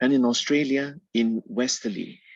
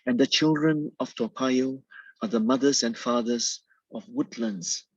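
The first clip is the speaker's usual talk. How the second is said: measured poetry reading with pauses at line breaks; poem recitation. Acted. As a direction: recite the poem in deliberate, separate phrases. Author reads own poem aloud.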